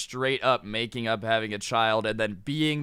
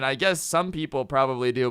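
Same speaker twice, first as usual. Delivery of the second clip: usual speaking voice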